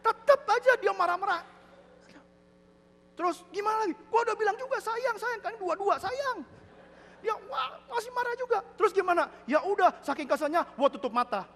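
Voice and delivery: high, loud comic exasperation; exasperated husband. Retold or imitated. Deaf husband telling friend she stays angry, high exasperation. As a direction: build the complaint high and loud.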